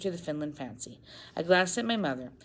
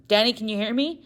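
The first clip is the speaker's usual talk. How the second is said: worried; 6 semitones higher, 6 dB louder than usual. Acted. Father calls unconscious wife.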